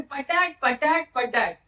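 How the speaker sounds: punchy mimicked smack sounds, one after another; imitated whacks. Mother beating child with guava stick, imitated whacks. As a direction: act out each blow of the stick.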